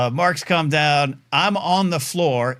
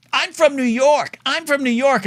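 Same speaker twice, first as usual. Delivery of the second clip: much higher, loud mock shriek of an angry lady; high shrill-voiced imitation of the yelling lady; angry New York lady; 11 semitones higher, 4 dB louder than usual. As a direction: ham up a screaming woman at the front desk. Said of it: "she's like".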